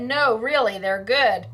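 quoting him through laughter; mock Andrew, laughing. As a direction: repeat his line while cracking up. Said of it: "He said".

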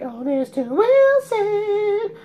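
high, loud drawn-out holler; mocking shouted catchphrase. People teasing him about his last name, mocking high shout. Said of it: "they'd be like".

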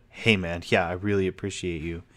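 mildly sarcastic, lightly dragged; a hint of sarcasm on yeah. Shown as a demonstration. Contrasting with a sarcastic thanks, mildly mocking. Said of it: "instead of".

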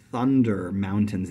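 "Thunder" and "mountains" with the weight on the first syllable; first syllable stressed. Shown as a demonstration. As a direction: hit THUN and MOUN, drop the endings. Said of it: "these are already trochaic".

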